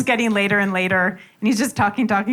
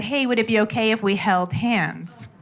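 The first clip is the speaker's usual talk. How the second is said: gentle. Retold or imitated. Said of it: "And just very gently".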